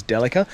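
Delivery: "Delica" with a short e, stressed first: DEL-i-ca; correct pronunciation. Shown as a demonstration. Driver giving the car's proper name, "Delica" as DEL-i-ca. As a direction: say "Delica" as DELL-uh-kuh. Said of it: "the correct pronunciation of my car's name".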